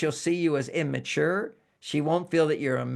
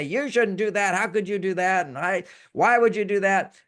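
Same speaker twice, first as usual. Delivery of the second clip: raised, lightly angry reproach; mock scolding; 4 semitones higher, 3 dB louder than usual. A wife scolding her husband, raised, lightly angry reproach.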